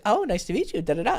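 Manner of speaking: light, lilting interest; smitten girl. Retold or imitated. Coach mimicking a girl who liked his client, charmed. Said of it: "could totally hear it in her voice".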